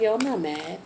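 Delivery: calm, softly put denial; real calm. Acted. Done arguing, answering "why you mad?", real calm. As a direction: say it evenly, without any fight. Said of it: "You say it in a real calm voice".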